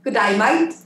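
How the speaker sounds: learner's rising Australian greeting; attempted Australian accent. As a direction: have a hesitant go at Australian. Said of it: "Linda, try and say it".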